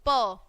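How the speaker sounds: प as "puh", consonant plus short vowel; letter sound demo. Shown as a demonstration. Teacher showing children the sound of P, letter sound demo. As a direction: sound out प on its own. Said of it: "क्या बनेगी".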